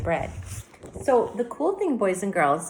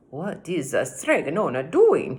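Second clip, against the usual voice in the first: lightly voiced puzzled Anthony; 3 dB louder than usual. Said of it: "he asked himself".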